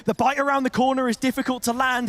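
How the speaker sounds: esports call peaking on the big hit; live caster energy; excited play-by-play. Real, not acted. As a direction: ride the action up to a climax.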